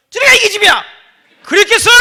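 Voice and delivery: high, loud enraged shout; furious yell. Pretend. Father pretending he yelled back at the crying baby, shouting. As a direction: roar at the child in mock fury. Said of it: "그래서 제가".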